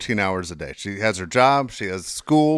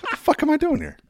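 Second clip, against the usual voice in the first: stunned disbelief; 14 semitones higher than usual. Retold or imitated. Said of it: "looking at the ceiling like".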